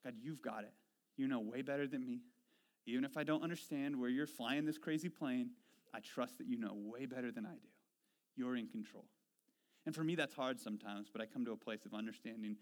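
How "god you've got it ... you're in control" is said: softer, lower trusting prayer; quiet surrendering prayer. Retold or imitated. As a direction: let go and hand it to God. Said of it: "pause and relax and say".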